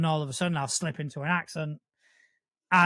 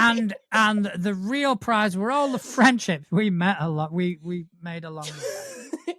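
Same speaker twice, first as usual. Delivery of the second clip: cheesy; 3 semitones higher, 4 dB louder than usual. Pretend. Co-host closing the chat with a mock-sappy moral, hammed up. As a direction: deliver the corny lesson with a knowing wink. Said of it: "Let's, let's be a little cheesy".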